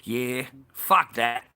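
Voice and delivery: slow dismissive yeah fuck that; slow, drawn-out defiant retort. Retold or imitated. Man repeats his line-queue retort, slow and dismissive. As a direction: stretch it out, unbothered. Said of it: "That's what I said".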